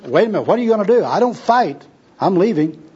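high-pitched, flustered refusal; agitated protest. Acted. Tramp wants to escape the preacher, agitated. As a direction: back out of the quarrel, protesting. Bum backs out of quarrel.

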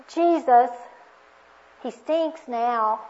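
voiced as an objection to Jesus; slow, drawn-out mild protest. Martha tugging at Jesus' sleeve, mildly protesting.

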